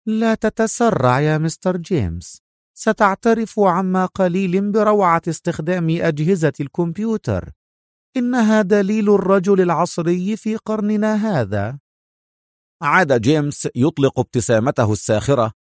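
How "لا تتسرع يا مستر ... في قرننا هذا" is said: put-on higher, fond old professor; professor's voice. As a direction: lecture James proudly. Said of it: "وهو يقول". (صوت البروفيسور المعتز بجهازه)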